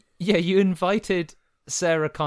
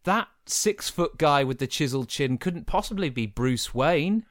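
mock naive; 3 semitones higher than usual. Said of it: "You gotta go".

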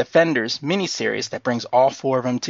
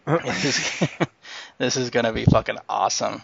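laughing through giddy excitement; giddy as a schoolgirl, giggling the words out; giddy laughter. Real, not acted. Podcast host gushing over the Netflix Marvel news, giddy and laughing. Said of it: "now I'm getting as giddy as a schoolgirl".

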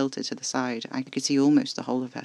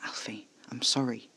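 soft whisper; whispered apology; 8 dB quieter than usual. A narrator's reading. Casper apologising to Alfie, whispered. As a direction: apologise gently under breath.

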